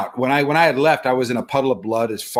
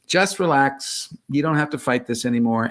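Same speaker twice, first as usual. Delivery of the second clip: calming voice; 3 dB quieter than usual. Retold or imitated. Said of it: "it was very calming, very soothing".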